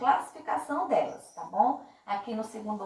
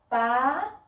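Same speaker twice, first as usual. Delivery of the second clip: "Palhaço" broken by long pauses, stressing LHA; stressed middle syllable; 3 semitones higher than usual. Shown as a demonstration. Teacher spacing syllables for pupils, long pauses in "Palhaço", stressed LHA. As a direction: chop "Palhaço" into three separate syllables, LHA strong. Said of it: "que foi mais forte".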